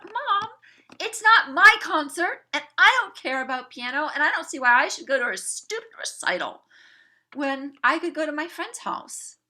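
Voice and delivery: put-on high, loud teenage complaint; whiny protest. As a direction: argue back like a petulant kid. Daughter arguing with mom.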